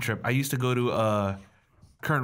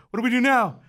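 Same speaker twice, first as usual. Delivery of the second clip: raised, louder frantic question; mock alarm; 10 semitones higher, 5 dB louder than usual. Boy and dad stuck in river, mock panic. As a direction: push pitch up and call it out.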